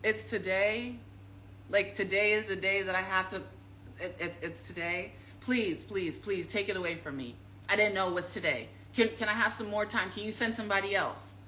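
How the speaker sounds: lightly voiced reluctant Jesus; a hint of whining dread; mock Jesus. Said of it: "And Jesus was like".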